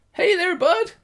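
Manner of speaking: very high, loud hail; gnome shout. Acted. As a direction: shout a greeting as a tiny gnome. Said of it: "the gnome shouts".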